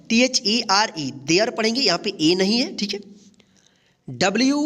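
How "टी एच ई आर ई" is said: quick spelling. Shown as a demonstration. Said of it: "यहाँ पे ध्यान रखिएगा".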